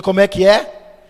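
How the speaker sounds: can't believe the offer; stunned. Retold or imitated. Employee hearing a tripled salary, stunned loud question.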